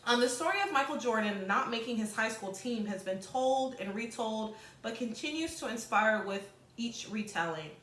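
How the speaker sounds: steady read-aloud voice for the class. Acted. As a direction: read the passage clearly to students. Teacher reads passage aloud.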